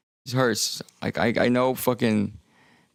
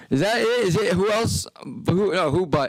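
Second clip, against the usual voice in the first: high puzzled questioning; 9 semitones higher than usual. Real, not acted. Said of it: "testing the jingle words".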